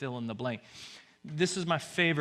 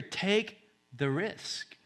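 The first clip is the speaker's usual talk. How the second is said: slow whisper; 5 semitones higher, much slower than usual. Pretend. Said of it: "whispering in your ear".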